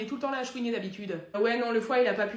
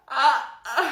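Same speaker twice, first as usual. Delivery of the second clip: loud cries of effort from a failing spell; strained cries; 7 dB louder than usual. Acted. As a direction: cry out as the magic overwhelms you. La sorcière peine sur son sort.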